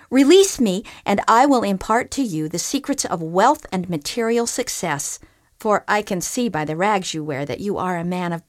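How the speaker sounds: earnest enchanted animal, pleading; groundhog voice. Acted. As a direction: beg the fisherman to let you go.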